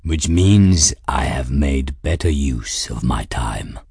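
low, slow smug cat voice; a self-satisfied cat explaining. A narrator's reading. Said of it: "Raoul said smugly".

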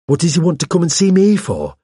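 high, shrill and agitated protest; rising shrilly. A narrator's reading. Hawes questions the vicar about an unwanted visitor, shrilly. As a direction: let the voice climb high in alarm. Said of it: "His voice rose shrilly".

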